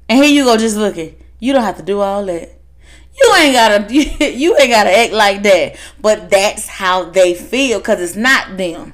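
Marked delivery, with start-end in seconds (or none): 1.4-5.8 laughing protest. Real, not acted. Reacting to fussing brother.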